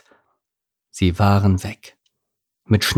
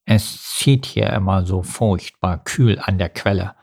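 carp voice. Acted. Karl answers.

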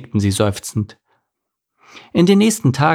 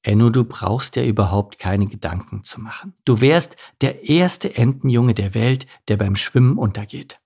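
put-on calm your child in a slightly lowered voice; reassuring father.

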